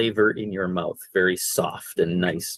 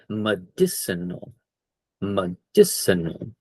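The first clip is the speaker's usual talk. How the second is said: slow model word; 4 dB quieter, slower than usual. Shown as a demonstration. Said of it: "I should have said that word".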